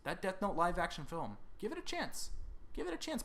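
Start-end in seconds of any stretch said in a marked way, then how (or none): 1.6-3.2 high, small pleading voice; mock pleading. Host urging a subscriber to try a film, high mock plea. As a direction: plead high up in your range.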